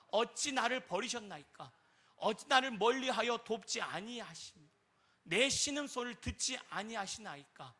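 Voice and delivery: slow, loud scripture recital fading at the end; solemn psalm reading. Shown as a demonstration. Preacher reading Psalm 22 aloud with the congregation, slowly. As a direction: read it like a lament, slowly. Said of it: "같이 한번 읽겠습니다".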